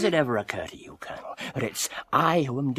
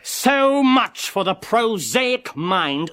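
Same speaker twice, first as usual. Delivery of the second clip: sneering; 4 semitones higher, 3 dB louder, much slower than usual. Acted. Foma sneering at the colonel.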